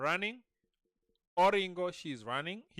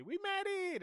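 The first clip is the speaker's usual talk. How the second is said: high-pitched mock cheer at modest volume; small high imitation of a victory cry; mini celebratory squeal. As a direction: squeak out the cheer as a quick replay. Quotes own cheer for effect.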